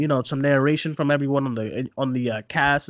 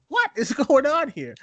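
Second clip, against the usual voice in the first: laughing disbelief; 10 semitones higher than usual. Retold or imitated. Retelling her own shock, laughing.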